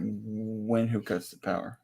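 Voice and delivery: conspiratorial whisper; asking who cuts the power in a conspiratorial whisper. Pretend. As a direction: whisper it like a secret. Joking about the government cutting power.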